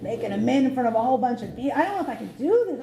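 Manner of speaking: fast, high, panicky rush; nervous panic. Retold or imitated. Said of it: "getting all nervous".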